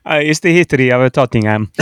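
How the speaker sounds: Chiellini impression, Italian accent. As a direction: put on a thick Italian accent. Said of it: "we're gonna need you to do it now".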